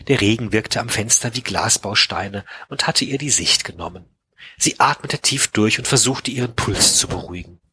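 measured audiobook-style reading; storyteller reading prose and dialogue; story narration. A narrator's reading. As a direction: read the novel aloud, shaping each sentence. Reads a novel aloud.

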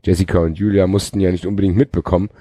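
even read-aloud delivery; story narration. A narrator's reading. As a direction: narrate the action like an audiobook. Reads a novel aloud.

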